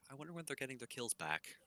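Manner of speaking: imagined butcher. Retold or imitated. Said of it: "I'm sure the butcher's always like".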